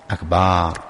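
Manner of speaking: أكبار with the a after the ba stretched long, akbaar; أكبار said as akbaar, not akbar; drawn-out ba. Shown as a demonstration. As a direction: hold the a in أكبار. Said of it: "مد فتحة الباء".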